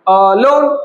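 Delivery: drawn-out আহ, then a stressed লোন. Shown as a demonstration. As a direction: lean on the second syllable, লোন. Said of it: "লোন হচ্ছে অ্যাকসেন্টেড".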